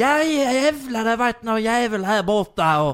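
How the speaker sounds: very thick Skåne accent. Show the others what the broadest Scanian sounds like, in the broadest Scanian accent. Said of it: "Ja men så här".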